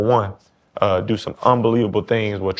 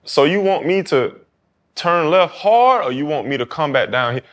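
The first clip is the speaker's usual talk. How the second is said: put-on higher, questioning New Orleans accent; 5 semitones higher than usual. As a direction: imitate a curious New Orleans youngster, drawing out the start. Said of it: "trying to talk in my New Orleans accent".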